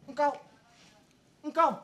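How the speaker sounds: hammy soap opera declaiming; soap opera drama. Acted. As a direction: overact like a soap opera hero. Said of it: "Kayak sinetron ya".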